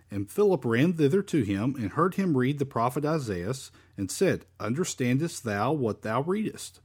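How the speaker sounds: measured Bible reading, lilting phrases; scripture reading. Acted. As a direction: read the verse aloud to a congregation. Reads scripture aloud.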